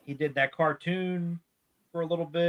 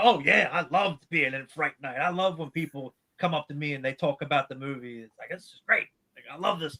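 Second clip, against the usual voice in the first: put-on giddy, fast, kid-like excited voice. Retelling an actor's interview about Fright Night: imitating giddy Art Evans. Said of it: "He was all giddy. He was like a little kid".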